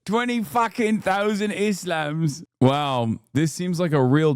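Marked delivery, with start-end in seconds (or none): 0.0-2.4 slow, lightly imitated British dismay; mock British alarm. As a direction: draw it out in mock horror. Streamer mimics the interviewee's outrage.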